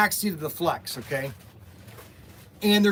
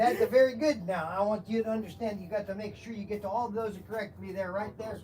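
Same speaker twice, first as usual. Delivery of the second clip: put-on comic character with a foreign accent; Mister Wiggins; 6 dB quieter than usual. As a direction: play a sketch-show boss with a thick comic accent. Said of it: "I'm gonna talk like this".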